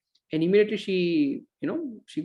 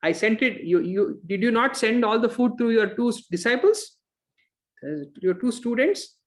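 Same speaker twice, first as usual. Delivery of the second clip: angry tone; 3 semitones higher than usual. Retold or imitated. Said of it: "in a very angry tone".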